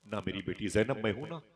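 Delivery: softened, reassuring father's voice; gently consoling. Retold or imitated. Father comforting his bereaved daughter Zainab, gently consoling. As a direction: hush a grieving child softly. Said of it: "हुजूर ने तसल्ली दी".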